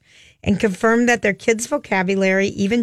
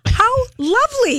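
high-pitched, put-on British lilt; mock British accent; 13 semitones higher than usual. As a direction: coo it in a much higher British accent. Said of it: "a British accent".

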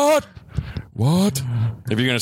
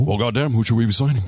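fast, gruff boss voice; gruff tycoon voice; 3 semitones lower, faster than usual. Acted. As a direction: bark it like a wrestling boss. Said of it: "less gruffness and more roundness".

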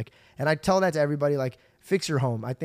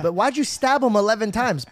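higher, louder mock cross-examination; mock courtroom questioner; 7 semitones higher, 5 dB louder than usual. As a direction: put the accused on the spot, playfully. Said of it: "Imagine in court".

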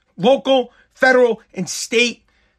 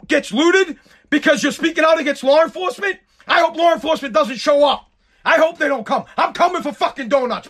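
raised, heated threats; furious rant; 3 semitones higher than usual. Real, not acted. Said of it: "I'm just pissed".

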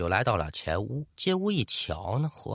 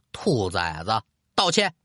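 a sharp command, the last word barked out; stern roar; 4 semitones lower than usual. Acted. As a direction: bark the order at the kneeling ghosts. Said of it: "对着侯三儿等人是大喝一声".

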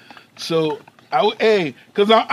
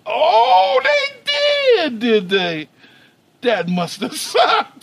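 high mock sympathy; 13 semitones higher, 5 dB louder, much slower than usual.

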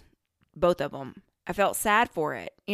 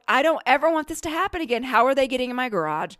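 high, loud, fast comic outburst; hammed-up frantic complaint; mock distress; 6 semitones higher, 6 dB louder, faster than usual. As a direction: rush it out in exaggerated dismay. Acting out distress at second mouse.

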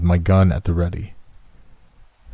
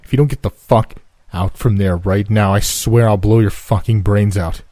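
gun-drawn warning growled at an unseen stranger; intimidating threat; 2 semitones higher, 4 dB louder than usual. Acted. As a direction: threaten the intruder hiding in the wall. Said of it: "in the most intimidating voice I could muster".

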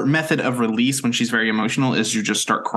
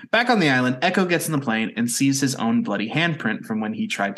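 episode recap read. Acted. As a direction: read the plot summary evenly.

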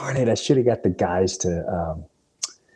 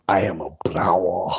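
whispered; 5 semitones lower than usual. Retold or imitated. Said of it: "I'm like".

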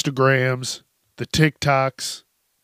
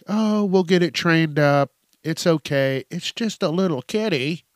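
put-on a lightly higher, brighter girlfriend brushing it off; girlfriend's voice; 4 semitones higher than usual. Girlfriend reassures boyfriend about her cat, lightly voiced higher.

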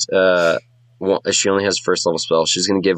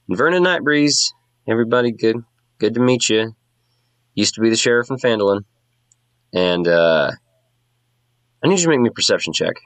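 a hint of a brisk former sheriff, higher; lightly voiced ex-sheriff; 4 semitones higher than usual. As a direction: introduce yourself to the crowd, businesslike.

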